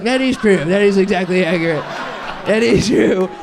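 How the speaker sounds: loud, laughing concession; laughing agreement. Retold or imitated. Aunt admitting to her niece she loves whipped cream, laughing. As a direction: give in while cracking up.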